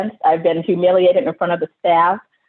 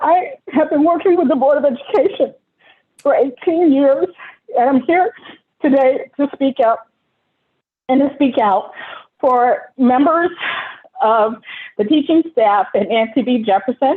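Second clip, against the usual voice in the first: voice breaking, halting, pitched-up, close to crying; 6 semitones higher than usual. A public speaker addressing the Board of Education, on the verge of crying. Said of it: "I'm going to cry".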